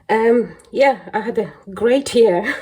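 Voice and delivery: sarcastic. Real, not acted. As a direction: say it sarcastically, meaning the opposite. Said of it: "being sarcastic right now".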